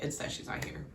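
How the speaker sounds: breathy whispered echo of his line. Retold or imitated. Quoting John, whispered and hushed. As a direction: whisper it like a confession. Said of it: "he's basically just like".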